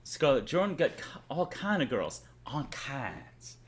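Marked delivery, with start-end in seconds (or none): 2.5-3.6 Hodge twins. Acted. Streamer quoting twins' catchphrase, light impression. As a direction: drop the catchphrase quietly, lightly imitated. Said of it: "Hodge twins would say".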